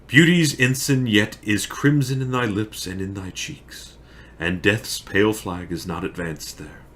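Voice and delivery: grief-laden Shakespearean monologue, swelling on the outcries; Romeo. Acted. Romeo mourns over dead Juliet, declaimed and impassioned.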